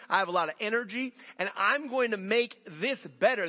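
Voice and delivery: loud, high, cocky self-promotion; boastful protest. Retold or imitated. Himself bragging to Jesus he'll change the route, loud and high. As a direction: brag about your own drive, loud.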